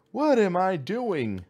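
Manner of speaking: slow, high, bewildered repeat; drawn-out baffled question. Real, not acted. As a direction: stretch it out in disbelief. Puzzled gamer repeats question louder.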